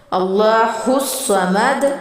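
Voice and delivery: slow, اللہ الصمد drawn out; slow recitation. Shown as a demonstration. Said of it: "الصمد کا مطلب ہے".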